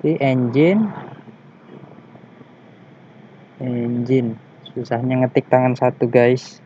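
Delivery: talking around a cigarette; cigarette in mouth. Real, not acted. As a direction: speak with a cigarette between lips. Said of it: "Aduh, sambil merokok ini susah".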